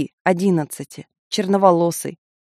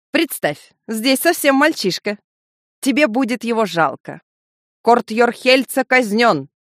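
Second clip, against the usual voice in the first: high mocking call; 5 semitones higher than usual. Kafaleks shouting taunts at Elga, high and mocking. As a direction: cry it out high across the square. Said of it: "выкрикнул Кафалекс".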